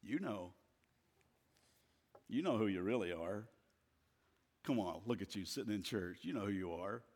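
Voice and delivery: low, hushed insinuation; accusing Satan. Acted. Satan accuses the churchgoer, quietly needling. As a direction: insinuate it softly, low and knowing. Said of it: "And he says to us".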